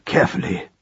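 low, breath-only aside; hushed whisper. A narrator's reading. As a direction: whisper it as a quick translation. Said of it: "whispered Roland".

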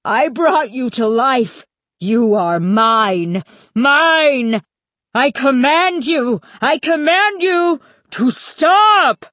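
high, emphatic cry, building in pitch and force; desperate shrieked command; high frightened shriek. A narrator's reading. Stanley commanding creatures he brought alive, frightened shriek. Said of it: "shrieked in a high, frightened voice".

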